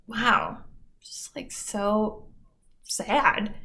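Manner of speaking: mock sad whisper. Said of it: "mocking myself".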